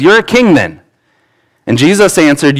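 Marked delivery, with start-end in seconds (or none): 0.0-0.8 king jumps high in mock disbelief; incredulous Pilate. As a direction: toss it up like you can't believe it. Pilate questions Jesus, reread.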